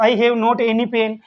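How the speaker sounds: each English word spaced out very slowly; deliberate classroom dictation pace. Shown as a demonstration. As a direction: read it out slowly for students to write down. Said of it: "teacher dictating answer".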